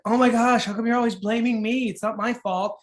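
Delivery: mock defensive blame-shifting; whiny victim. Family member dodging the garbage question, lightly whiny. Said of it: "A victim would be like".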